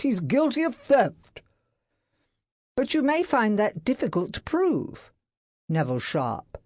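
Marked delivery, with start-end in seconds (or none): 0.0-1.4 higher, louder insistence; angry. A narrator's reading. Employer insisting to secretary, angry. 2.8-5.1 reasonable. A narrator's reading. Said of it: "said reasonably".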